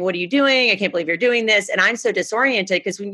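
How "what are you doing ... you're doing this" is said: enraged yelling. Retold or imitated. A woman whose car got hit yells at the driver, retold mild outrage. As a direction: retell her angry yell, half-hearted.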